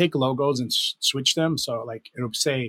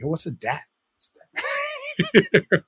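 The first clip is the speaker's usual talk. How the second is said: laughing disbelief. Retold or imitated. Baffled asking what a dat is.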